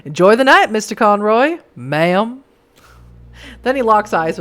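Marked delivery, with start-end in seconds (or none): 0.1-2.4 lightly put-on Western farewell; stranger's parting line in a mild Western accent. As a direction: stretch it out with a hint of Western accent. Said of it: "gave him a Western accent".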